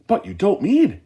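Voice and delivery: put-on high, loud alarmed old man; shouting. A narrator's reading. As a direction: shout in disbelief. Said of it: "shouted Grandpa Joe".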